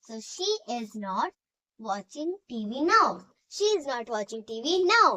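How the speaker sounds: very slow, word by word, for students to write; slow dictation. Shown as a demonstration. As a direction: spell it out slowly so the class can copy. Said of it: "dictation to students".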